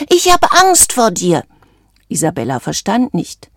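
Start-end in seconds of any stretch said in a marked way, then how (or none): 0.1-1.4 high-pitched, raised, scared voice; frightened cry. A narrator's reading. Valentino confessing fear to Isabella, crying out frightened. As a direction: call it out in fright. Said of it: "rief Valentino".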